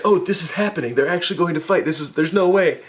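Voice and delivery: can't believe this is really happening; disbelieving. Retold or imitated. Stunned reaction as fight begins.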